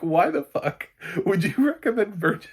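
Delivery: high, loud incredulous yell; half-laughing outrage; outraged yell. Retold or imitated. Yelling at the friend's careless recommender, outraged. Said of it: "It's like".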